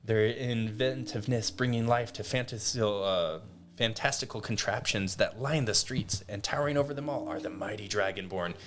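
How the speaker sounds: lightly voiced mayor's scripted welcome; mayor reading a script. Mayor welcoming newcomers to Eldoria, lightly acted script reading. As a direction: recite it like a prepared civic speech. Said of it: "he's reading a script".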